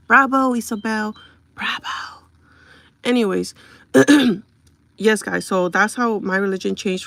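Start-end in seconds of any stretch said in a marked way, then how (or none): 0.1-1.2 louder mocking "bravo" with fake praise; sarcastic bravo. Real, not acted. Sarcastic applause for a hater. 1.5-2.2 "Bravo" breathed as a sarcastic whisper. Real, not acted.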